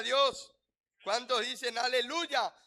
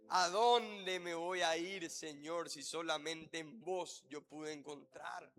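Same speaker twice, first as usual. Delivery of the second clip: slow, softer, lower voice; tender devotion; 7 semitones lower, 5 dB quieter, slower than usual. Acted. Preacher voicing a disciple speaking to the Lord, tender devotion. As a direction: say it slowly as a humble confession.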